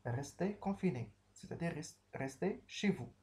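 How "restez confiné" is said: firm order. Shown as a demonstration.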